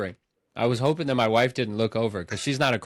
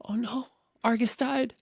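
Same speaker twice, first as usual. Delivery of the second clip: higher, half-hearted whimper over the dog; imitating his own teary cry; mock wail; 12 semitones higher than usual. Friend retells crying when the dog died, higher mock whimper. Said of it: "I said".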